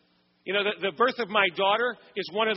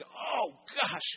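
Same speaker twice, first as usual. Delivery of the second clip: inner cringe; 7 dB quieter than usual. Retold or imitated. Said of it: "I'm cringing".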